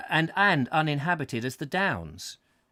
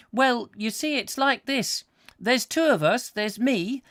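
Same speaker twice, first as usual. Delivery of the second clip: put-on a little country boy, much higher and louder; high urchin voice; 9 semitones higher, 4 dB louder than usual. A narrator's reading. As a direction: rattle off the directions as an eager urchin, up high. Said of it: "said he in a very high voice".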